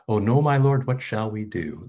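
high, loud cry of alarm; alarmed servant. Acted. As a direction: cry out in panic at the surrounding army. Servant panics before the army.

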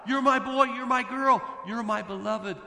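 high, loud call of a proud father; joyful cry. Acted. Heavenly Father calling out to the baptized, proud and loud. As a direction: proclaim it to every child, beaming. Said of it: "the Heavenly Father cries out".

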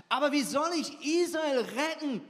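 high, loud protesting cry; Gideon crying out. Acted. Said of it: "rief Gideon".

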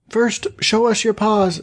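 put-on high, slow wary young goats; little kids. A narrator's reading. Kids testing the wolf at the door, high voices. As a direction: demand it slowly as little kids. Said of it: "said the kids".

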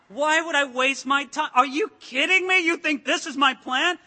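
exasperated Moses. Pretend. Moses answering the accusing people, mock indignant. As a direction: throw it back at them, indignant. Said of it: "Can you imagine Moses saying".

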